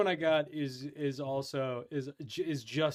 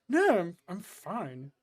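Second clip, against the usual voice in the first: stoned guy; 2 semitones higher, slower than usual. Retold or imitated. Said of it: "He goes".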